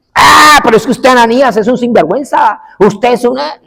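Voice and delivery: high-pitched, hammed-up indignant outburst; mock angry shouting. Preacher showing how Paul did not answer Ananías, mock angry shouting. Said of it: "Pablo no grita".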